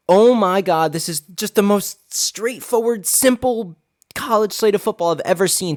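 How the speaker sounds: high, thrilled and gushing; excited gushing. Real, not acted. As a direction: gush about the easy slate. Gushing over the slate.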